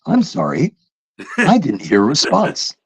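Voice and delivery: lightly mimicked automated apology; a hint of robotic phone voice; polite mock recording; computer bot. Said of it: "computers will go".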